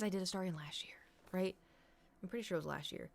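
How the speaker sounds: breathy whispered aside, as if confessing. Real, not acted. Streamer confessing to chat she already did this: whispered aside. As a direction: drop to a whisper mid-thought. Aside about last year's costume.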